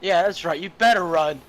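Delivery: loud jeering yell; taunting shout. Acted. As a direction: shout after them mockingly. Player yells after villain.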